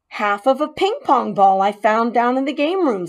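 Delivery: put-on proud boy showing off his gift; lightly voiced boy Keith. Boy showing the mouse his gift, lightly eager.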